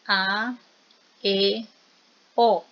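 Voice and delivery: A, E, O each held alone, open and distinct; vowel demonstration. Shown as a demonstration. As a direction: sound out A, E, O separately with open mouth. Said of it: "hágalo por favor". (vocales abiertas A, E, O, pronunciadas una por una)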